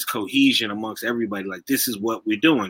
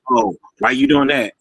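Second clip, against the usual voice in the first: prim hall monitor; 12 semitones higher, 4 dB louder than usual. Retold or imitated. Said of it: "hall monitor energy".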